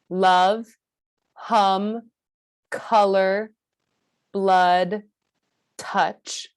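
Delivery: isolated words, each with a full stressed "uh" vowel; stressed uh examples. Shown as a demonstration. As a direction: model "Love, hum, color, blood, touch" one by one, stressing the uh. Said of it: "We get this sound in stressed positions".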